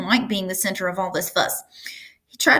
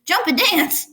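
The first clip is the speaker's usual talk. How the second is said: much higher rooster voice; 10 semitones higher than usual. A narrator's reading. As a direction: chime in as the rooster. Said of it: "said the rooster".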